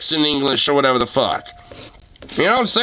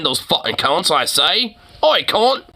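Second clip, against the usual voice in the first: mock Australian accent. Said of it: "they know how to say".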